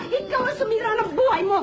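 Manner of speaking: high shout stressing buhay; tearful shouted accusation. Acted. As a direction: yell it, leaning on buhay. Repeated accusation. (sigaw na diin sa buhay)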